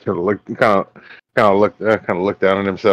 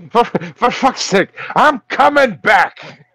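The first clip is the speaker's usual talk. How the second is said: high, slow wailing ghost; ghostly voice; 13 semitones higher, 5 dB louder, slower than usual. Acted. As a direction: wail it like a returning ghost. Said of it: "a ghostly voice".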